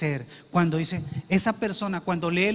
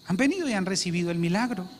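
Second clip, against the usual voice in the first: quick restatement; 2 semitones lower, faster than usual. Real, not acted. Preacher repeats the point to the congregation, quick restatement. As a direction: run quickly through the line after lifting VENIDO.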